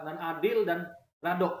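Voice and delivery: slow Minang-accented demonstration; Minang dialect. Shown as a demonstration. Teacher showing the second Pancasila principle, Minang dialect. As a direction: slowly sound out the Minang "radok". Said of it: "logat Minang misalnya".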